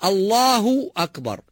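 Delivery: الله أكبر said slowly and cleanly, no stretch on the ب; correct adhan. Shown as a demonstration. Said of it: "تنطق صحيحة".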